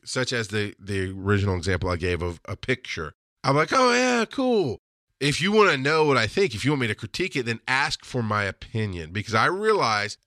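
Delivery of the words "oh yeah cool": casual approval. Acted. Dad acts admiring a shown picture.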